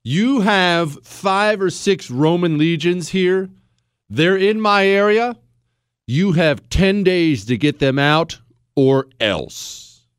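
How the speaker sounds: a lightly voiced tribal chief making demands; a hint of a barbarian chief laying down terms; brash Gallic chief. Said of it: "a powerful Gallic tribe stormed into the consul's office".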